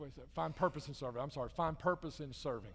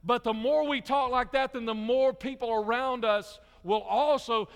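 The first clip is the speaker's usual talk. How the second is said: emphatic, driving sermon build; full-force preaching; 5 semitones higher, 7 dB louder than usual. Acted. Preacher telling congregation how faithful talk spreads, full-force preaching. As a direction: preach in rolling repetitions, leaning on key words.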